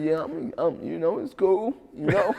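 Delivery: understated, casual reply; nonchalant. Retold or imitated. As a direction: softly shrug it off, retold. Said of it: "how nonchalant your son was".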